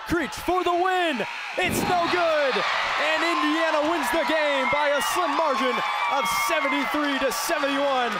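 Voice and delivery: climactic game call. Real, not acted. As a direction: call the game-winner at full pitch. Last-second shot decides the game.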